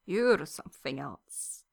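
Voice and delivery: low, slow retort; shot back. A narrator's reading. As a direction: toss it straight back. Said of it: "Victor shoots back".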